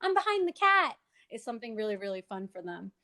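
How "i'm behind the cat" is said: playful hide-and-seek. Shown as a demonstration. Therapist hiding behind a book on Zoom, playful. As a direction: tease the child to find you. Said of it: "having the child try to find me".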